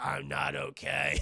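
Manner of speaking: slow, low, worn-out growl; lightly voiced chain-smoker rasp; raspy old Logan. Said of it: "sounds like an eighty-year-old chain-smoking bag lady".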